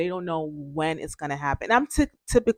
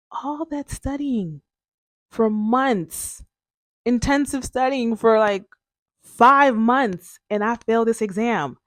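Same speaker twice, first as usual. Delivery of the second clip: retold cry of disbelief, higher and louder; disbelieving outburst; 5 semitones higher, 3 dB louder than usual. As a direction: relive the shock of failing, voice climbing. Retold outburst after failing exam.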